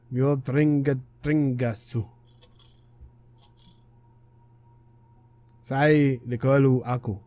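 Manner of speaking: slow, halting foreign speech, each word set apart; lightly voiced spirit, unhurried and deliberate; clouded leopard spirit. Clouded leopard spirit greets the player in Rukai, slow and deliberate.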